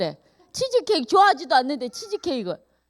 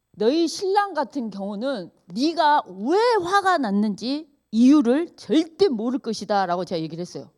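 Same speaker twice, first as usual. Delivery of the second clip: ordinary talk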